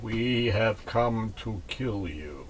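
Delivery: slow, low robotic Cylon; robot voice, each word even. Shown as a demonstration. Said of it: "I'll try to do a robotic voice".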